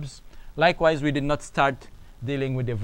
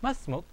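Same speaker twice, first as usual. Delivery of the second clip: "Masmuk" pitched high like a question; "Masmuk" as a higher-pitched query; questioning intonation; 6 semitones higher than usual. Shown as a demonstration. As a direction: ask "Masmuk" in a raised, questioning tone. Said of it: "You say it in a questioning way".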